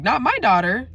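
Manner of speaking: outraged mom. Retold or imitated.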